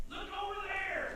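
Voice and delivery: shouting, over stressed; calling out. Acted. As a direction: call it out. Kids show, calling out.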